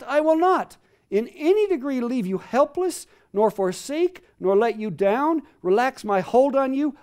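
building to a loud, high, insistent promise; emphatic scripture reading. Acted. Preacher reads God's promise to the congregation, building to loud fervor.

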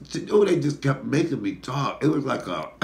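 ordinary delivery

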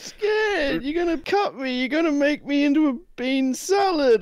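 high, trembling frightened plea; bullied kid pleading in fear; scared whimper. Acted. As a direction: beg the bully not to hurt you.

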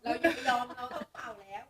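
เร่งเร้า. Real, not acted.

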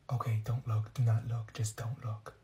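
conspiratorial whisper. Acted. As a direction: hush it so nobody hears. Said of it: "Why are you whispering?".

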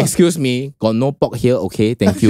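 mildly acted polite stall seller; video impression. Seller telling a customer there's no pork, low polite refusal. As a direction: lightly mimic a seller politely turning someone away. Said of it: "That's, that's my impression of the video".

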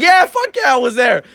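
high-pitched, heated retort; retold comeback. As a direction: fire it back as in a retold argument. Retold argument, firing back.

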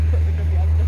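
loud, cheering call; shouted cheer. Pretend. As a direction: belt it out like a cheer. (gritando animada)

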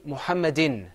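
"Muhammadin" ending on a clear in; teacher modelling "Muhammadin"; model pronunciation. Shown as a demonstration. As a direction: say "Muhammadin" firmly for repeating. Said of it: "Say it with me".

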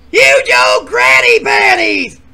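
high, loud drawn-out announcement; announcer intro. Acted. Host introducing the old granny contestant, loud slow. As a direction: stretch the name like a showman.

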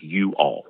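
"you all" as two separate words; broken-down y'all. Shown as a demonstration. Linguist breaking y'all down, two distinct words. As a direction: pull "you all" apart, each word full. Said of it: "if you break it down".

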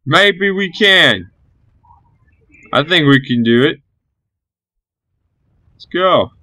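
high, slow hesitant voice building up courage; squeaky unsure infantry rallying; hopeful soldiers. Retold or imitated. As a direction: talk yourself into charging, timidly. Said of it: "These guys are like".

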